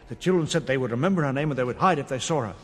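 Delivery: plain reading voice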